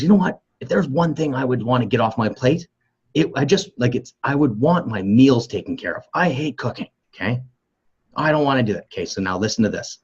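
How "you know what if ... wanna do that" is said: higher, lightly voiced frustrated wife; overwhelmed wife. Wife venting to husband about cooking, lightly voiced frustration. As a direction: vent like a worn-out wife, mildly. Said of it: "she goes".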